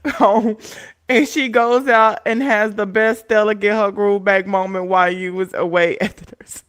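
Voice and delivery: loud, giggling through the message; laughing while reading. Real, not acted. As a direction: read it out cracking up. Reading a teasing chat message.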